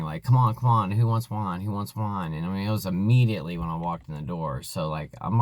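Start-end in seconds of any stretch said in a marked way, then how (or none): 0.2-2.3 loud, eager salesman hawking wine; pushy ad pitch. Retold or imitated. Mom pushing wine on arriving family, mock ad pitch. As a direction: sell the wine like a TV commercial, loud at the start. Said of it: "advertisement kind of a thing".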